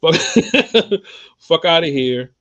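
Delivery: high, loud shocked curse; loud outburst. Real, not acted. Outburst after insulting author.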